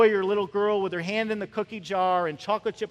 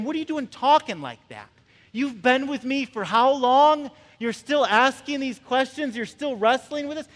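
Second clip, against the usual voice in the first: higher-pitched, incredulous scolding; mock exasperated rebuke; 5 semitones higher, 3 dB louder than usual. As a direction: mildly scold them in disbelief. Imagined rebuke from Jesus.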